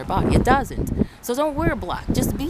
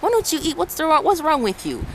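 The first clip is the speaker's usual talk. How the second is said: lightly voiced, higher insistent aunt pressing food on you; a mild mock of a nagging relative, pitched up; pushy relative; 4 semitones higher than usual. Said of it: "They're like".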